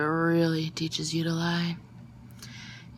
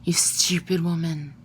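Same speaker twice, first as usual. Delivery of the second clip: annoyed snap; 4 dB louder than usual. Acted. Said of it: "in annoyance".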